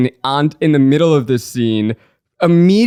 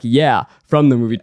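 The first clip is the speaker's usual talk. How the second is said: snarky. Retold or imitated. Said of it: "being like a snarky asshole".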